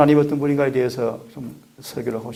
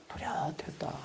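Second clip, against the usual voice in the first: near-whispered echo of a quote; hushed emphasis; 17 dB quieter, slower than usual. Acted. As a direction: drop right down to a whisper for weight. Preacher echoes quote for emphasis. (속삭이듯 낮춰 강조하며)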